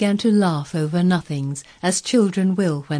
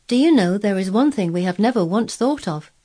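put-on higher, lively boy with a sudden thought; higher-pitched, eager child; excited boy Colin; 4 semitones higher, 4 dB louder than usual. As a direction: voice a boy struck by a sudden discovery. Voices Colin in the story.

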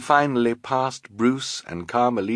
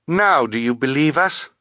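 put-on higher, insistent girl's voice; raised, pressing question; urgent girl; 6 semitones higher, 4 dB louder than usual. A narrator's reading. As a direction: demand to be believed. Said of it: "Violet asked Bruce".

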